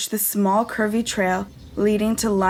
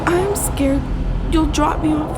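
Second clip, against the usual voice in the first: put-on high, tearful child's fear; a frightened little girl near tears; tearful scared child; 5 semitones higher than usual. Girl telling her mother her fear of the cliff, tearful. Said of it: "blue eyes filled with tears".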